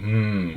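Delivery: a soft, short hum. Shown as a demonstration. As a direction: show the humming vibration. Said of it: "like you're humming".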